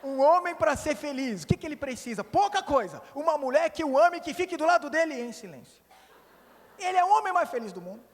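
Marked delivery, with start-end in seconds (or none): 0.0-5.8 repeated louder and higher, hammering each phrase; emphatic preacher's repeat, raised and driven. Shown as a demonstration. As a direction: say it again loud so nobody misses it. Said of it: "Vou repetir que alguns não entenderam ainda".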